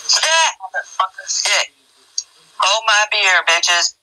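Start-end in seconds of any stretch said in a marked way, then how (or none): 0.1-1.7 sharp high command; high sharp order; dog command. Real, not acted. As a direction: snap it at the dog.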